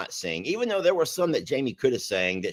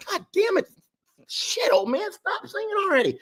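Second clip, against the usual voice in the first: higher, strained mock curse; mock tearful cursing. Husband mimicking himself at the bar, higher and strained. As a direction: pretend to fight back tears. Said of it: "I'm sitting like".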